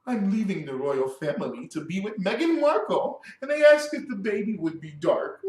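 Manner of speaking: mock sob story; mocking Prince Harry. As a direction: recite it as a whiny complaint, mockingly.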